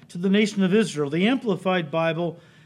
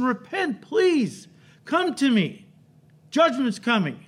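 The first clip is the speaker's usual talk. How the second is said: higher, urgent pleading call to repent; Jesus crying out; 5 semitones higher, slower than usual. Retold or imitated. Jesus crying out to the nation, pleading and higher. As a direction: beg the crowd to come before it's too late. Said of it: "he's crying out to the nation".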